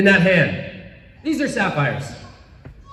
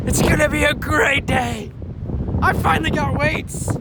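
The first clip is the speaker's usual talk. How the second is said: naive excited self; 6 semitones higher, 4 dB quieter than usual. Retold or imitated.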